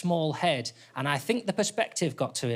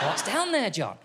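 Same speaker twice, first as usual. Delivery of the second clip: mock curious question; 5 semitones higher than usual. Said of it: "held for that".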